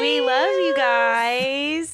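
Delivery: slow, sing-song goodbye to listeners; drawn-out sign-off. Acted. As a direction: stretch out a cheery farewell. Cheery podcast sign-off.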